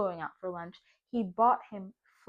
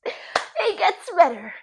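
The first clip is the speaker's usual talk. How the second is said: higher and louder, slow; sigh, then a slow teasing aside; teasing build-up; 8 semitones higher, 10 dB louder, slower than usual. Real, not acted. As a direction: hold the listener hanging, slow.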